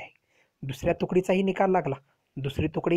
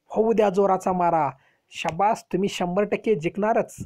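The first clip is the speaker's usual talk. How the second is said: mildly raised voice, imitating a commander cheering on troops; retold rallying shout; 3 semitones higher than usual. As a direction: urge the soldiers on with a restrained mock shout. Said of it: "मोठमोठ्यानं ओरडत होते". (सैनिकांना स्फुरण देणाऱ्या आरोळीची सौम्य नक्कल)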